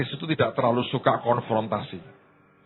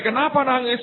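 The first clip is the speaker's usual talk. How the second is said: gently asked; 10 semitones higher than usual. Retold or imitated. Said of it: "Ditanya baik-baik".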